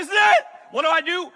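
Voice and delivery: loud, high-pitched panicked question; mock terror. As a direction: yell it as if the end has come. Acts out terror at the drop.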